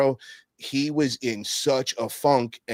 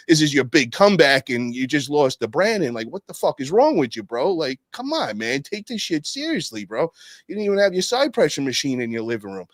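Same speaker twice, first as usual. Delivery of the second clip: mad ribbing. Retold or imitated. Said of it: "I was so mad".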